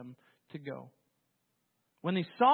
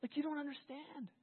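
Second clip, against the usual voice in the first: lightly voiced God, much softer and higher; hushed, gentle rebuke spoken as God; 5 semitones higher, 10 dB quieter than usual. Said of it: "it's almost like Isaiah forty when he said".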